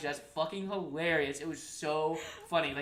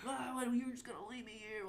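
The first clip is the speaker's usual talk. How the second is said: mock screaming; 9 semitones higher, 5 dB quieter than usual. Son protesting being left here by mom, mock-indignant. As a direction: imitate an indignant son, pitched up. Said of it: "they were screaming at each other".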